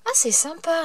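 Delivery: light up at a surprise gift; delighted. Real, not acted. Admiring the key. (enthousiasme aigu, ravie)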